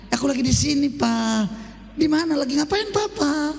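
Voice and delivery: manis dan manja menjawab suami. Pretend. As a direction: istri menjawab telepon dengan manja, agak tinggi. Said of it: "Ini enggak". (suara istri manja dan lembut)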